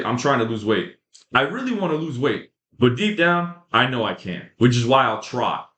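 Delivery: lightly voiced half-hearted dieter; mock whiny quote. Vlogger mocks viewers who only try, whiny mock voice. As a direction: imitate someone who's already given up. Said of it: "you're pretty much saying".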